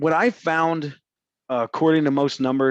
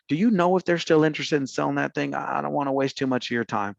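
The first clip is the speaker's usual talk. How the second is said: easygoing, apologetic cold-call voice; polite and non-offensive. Shown as a demonstration. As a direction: keep it friendly so you don't bother them. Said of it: "Did that sound, like, less offensive?".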